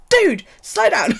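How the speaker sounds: high, loud and slow, pleading with her to ease up; stretched-out cry of slow down to a fast talker; exasperated plea. Retold or imitated. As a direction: drag out slow down in mock desperation. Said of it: "And I'm like".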